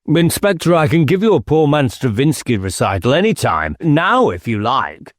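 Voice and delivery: a hint of a smug squire showing off; mocking squire. Squire offers a recital.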